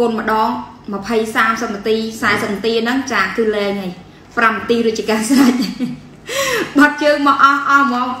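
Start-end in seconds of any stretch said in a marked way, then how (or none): 6.3-6.7 short high laugh. Real, not acted. Laughs about quick results.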